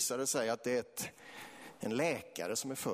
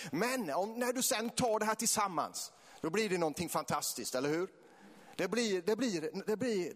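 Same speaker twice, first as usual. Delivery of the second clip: passionate preaching; 6 semitones higher than usual. Real, not acted. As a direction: preach it with rising fervour. Preaches at full force. (eldig, högstämd väckelsepredikan)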